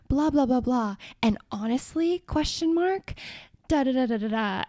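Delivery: lightly sing-song parody of AI phrasing; mock caption read. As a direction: rattle it off dismissively, mocking. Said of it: "where it'll be like".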